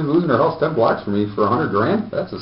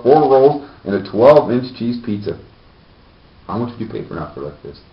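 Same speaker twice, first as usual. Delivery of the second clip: infomercial. Pretend. Mock ad pitch.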